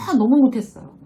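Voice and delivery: self-deprecating. Acted. Employee brushing off a compliment.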